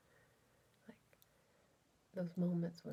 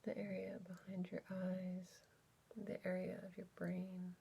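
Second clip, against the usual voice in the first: unhurried, exploratory guided body scan; guided meditation. Real, not acted. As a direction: gently lead listeners inward, leaving space between phrases.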